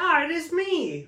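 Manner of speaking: high, slow hammed-up British-as-American; British faking American accent. Shown as a demonstration. Comic demonstrates a British woman trying American, hammed-up accent. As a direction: stretch out a badly faked British-American accent. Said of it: "So there's British, and then to be American".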